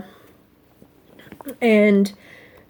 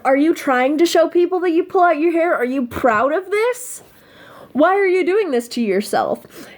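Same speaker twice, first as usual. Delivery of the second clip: higher, pushy scolding voice; scolding nag; 5 semitones higher than usual. Retold or imitated. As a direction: nag her to put her hands down. Voicing a scolding critic.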